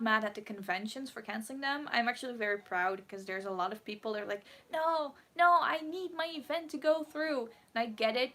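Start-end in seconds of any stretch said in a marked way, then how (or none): 4.7-7.5 higher-pitched mock insistence; imitated protest. Voices objecting event organizers.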